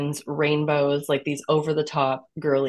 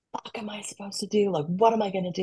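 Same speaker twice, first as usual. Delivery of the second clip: retold despair; 4 semitones higher, 4 dB quieter, faster than usual. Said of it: "and I was screaming".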